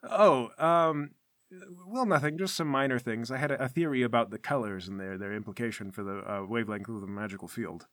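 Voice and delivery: mildly halting, trailing-off explanation; softening into a lightly voiced, evasive mumble; hesitant curator. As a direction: play it down, fumbling for words. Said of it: "And Rutherford goes".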